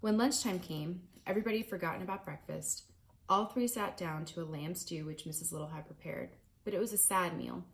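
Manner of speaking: reading a chapter book aloud to a class; steady, clear read-aloud narration; story narration. A narrator's reading. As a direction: tell it like a storybook to listening kids.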